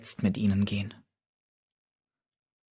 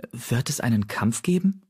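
ordinary delivery

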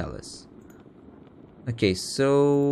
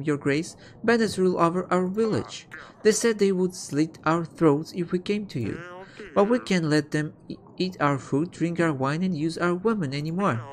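raised, pleading peasant voice; 5 semitones higher than usual. Acted. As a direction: beg the king for help, pitched up. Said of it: "A peasant".

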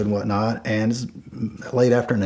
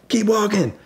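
stern warning; 10 semitones higher than usual. Retold or imitated. Warning off the would-be thief.

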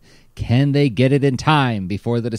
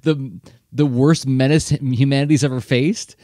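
scary narrator voice; 3 semitones higher, 4 dB louder than usual. Retold or imitated. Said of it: "with this scary voice".

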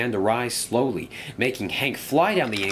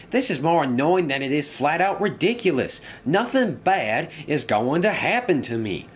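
higher-pitched, defiant engine character; annoyed engine; 7 semitones higher than usual. Acted. Engine brushing off warnings of bad luck, higher and annoyed. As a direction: insist with growing irritation.

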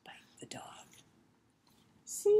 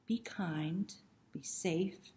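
whispered; 2 semitones lower, 5 dB quieter, slower than usual. Acted. Gentle sign-off to the kids.

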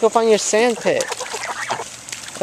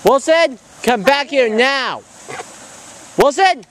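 calling the dog; 8 semitones higher than usual. Real, not acted. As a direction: yell after the runaway dog. Owner calls runaway dog.

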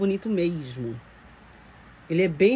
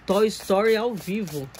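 mock command. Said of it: "Levo pra T V e falo".

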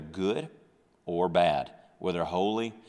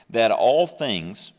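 loud, slow emphasis; emphatic preaching; 7 dB louder, slower than usual. Acted. Preacher stressing God's creation to church, loud and slow. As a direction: lean hard on every word.

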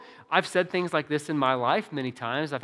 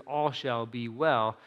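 quiet conviction; 4 semitones lower, slower than usual. Retold or imitated. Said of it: "she means it".

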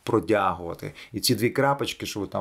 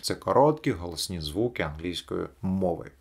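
normal talking voice

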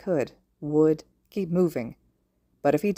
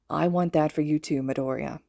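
gently. Acted. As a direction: reassure the crying boy tenderly. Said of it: "Shota said gently".

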